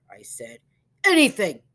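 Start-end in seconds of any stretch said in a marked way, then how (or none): 1.0-1.6 eager shout, much higher and louder. Acted. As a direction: call it out eagerly with full voice. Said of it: "he shouted".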